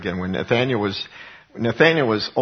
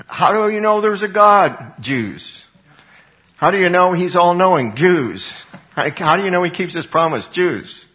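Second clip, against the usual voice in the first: higher, louder rhetorical taunt; higher, louder mock taunt to the Jews; mock challenge; 6 semitones higher, 5 dB louder than usual. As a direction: throw the question at them.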